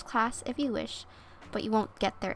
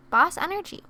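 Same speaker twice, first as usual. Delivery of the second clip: excited; 7 semitones higher, 7 dB louder than usual. Real, not acted. Cheering on the querent.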